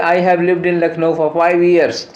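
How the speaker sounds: reading the sentence very slowly, word by word; slow dictation read. Shown as a demonstration. Teacher reading the question sentence to students, very slow and deliberate. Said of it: "example sentence read out".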